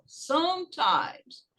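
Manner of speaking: slow, careful teacher's "Sometimes"; clear pronunciation model. Shown as a demonstration. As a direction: stretch out "Sometimes" as a model word. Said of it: "Você pronuncia, geralmente, a primeira sílaba".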